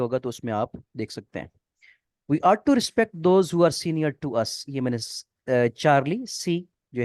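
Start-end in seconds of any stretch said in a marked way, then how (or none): 2.3-4.6 slow sentence read. Shown as a demonstration. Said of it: "reading exam sentence aloud".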